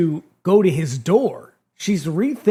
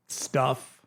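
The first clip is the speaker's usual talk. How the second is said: flat mumble; 7 semitones lower, 10 dB quieter than usual. Retold or imitated. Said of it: "And I'm like".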